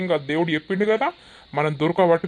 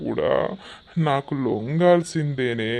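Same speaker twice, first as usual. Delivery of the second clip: lower, menacing tipsy lord; drunken villain; 5 semitones lower than usual. Acted. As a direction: threaten the captive. Villain voice held.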